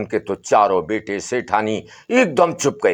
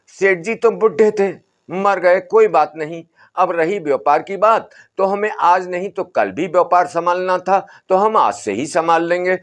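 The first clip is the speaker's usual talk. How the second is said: higher, lightly voiced dismissive sons; sons brushing off; 7 semitones higher than usual. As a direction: shrug it off as the eager heirs. बेटे बाबा को टालते. (बेटों की हल्की ऊँची, टालने वाली आवाज़)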